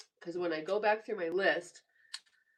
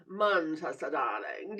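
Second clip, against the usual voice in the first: Manchester with a clipped British a, dropping the r; mock British accent; 5 semitones lower than usual. Trying a viewer's hometown, hammed-up British accent. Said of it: "Is that how you say it?".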